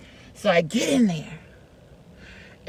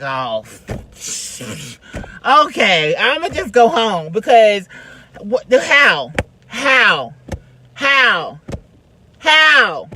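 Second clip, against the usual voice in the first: building disbelief; 4 dB louder, slower than usual. Retold or imitated. Spotting the famous person in the room, disbelief building to a loud cry. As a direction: panic rising with each "How?". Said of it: "So immediately I'm like".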